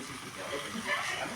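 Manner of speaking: low, hushed private aside; very soft, low unspoken retort; inner thought. Retold or imitated. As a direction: mutter it to yourself under the breath. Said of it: "Yo dije dentro de mí".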